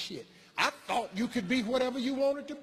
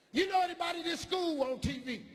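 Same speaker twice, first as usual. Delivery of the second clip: higher incredulous teacher; 9 semitones higher, faster than usual. Retold or imitated. Teacher cross-examining the boy, high doubting voice.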